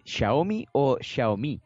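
Xiaomi said slowly, first as SHAOmi then again the other way; the host sets two pronunciations of Xiaomi side by side, slow. Shown as a demonstration. Offering both pronunciations of Xiaomi, drawn out. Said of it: "que eso es el problema".

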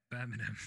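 BIRMINGHAM without its G, "BUR-min-um"; own pronunciation. Shown as a demonstration. Guest repeating how they say the city, own pronunciation. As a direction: say "Birmingham" skipping the G. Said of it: "That's how I say it".

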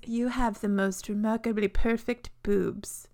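quoted book hero. Retold or imitated. Quoting the book's corny line.

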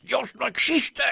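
high, drawn-out taunt; mocking proclamation. Atheist neighbour to a Christian woman, taunting cry. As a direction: call it out high, stretching the end.

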